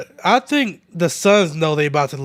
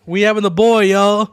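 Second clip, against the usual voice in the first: higher, louder happy announcement; excited reveal, raised voice; proud announcement; 4 semitones higher, 5 dB louder than usual. Real, not acted. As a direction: share big news with the audience. Announces baby boy to viewers.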